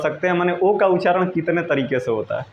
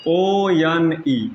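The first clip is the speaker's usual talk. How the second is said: spelling out letters; much slower than usual. Shown as a demonstration. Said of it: "जैसे एक spelling है".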